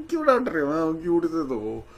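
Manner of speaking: giggling fond tease. Retold or imitated. Giggling inner thought.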